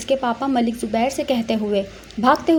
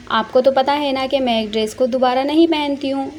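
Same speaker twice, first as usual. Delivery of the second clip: pouting. Acted. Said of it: "बेचारा सा मुँह बनाते हुए".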